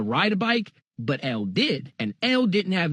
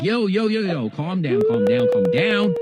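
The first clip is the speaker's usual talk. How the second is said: rising, louder calm-down from dad; dad calming a kid; 4 dB louder than usual. Retold or imitated. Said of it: "Pops is like".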